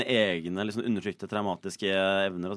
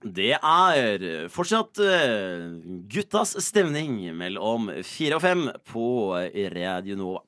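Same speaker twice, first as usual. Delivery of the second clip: slow, drawn-out station ident; leisurely radio presenter delivery; radio host announcement; 2 semitones lower, much slower than usual. Acted. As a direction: announce the show with stretched words.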